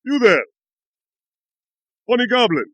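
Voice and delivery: high-pitched hail to a stranger; acted yelling, pitched well up; goblin yell. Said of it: "I'm gonna yell at him in Goblin".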